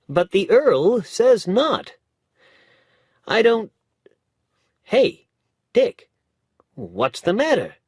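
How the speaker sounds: chatty lawyer handing over a paper, then alarmed; lawyer's voice climbing into surprise; young lawyer voice. A narrator's reading.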